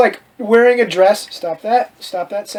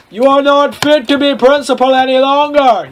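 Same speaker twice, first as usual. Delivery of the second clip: hammed-up yell; 5 semitones higher, 4 dB louder than usual. A narrator's reading. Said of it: "yelled Rumbridge".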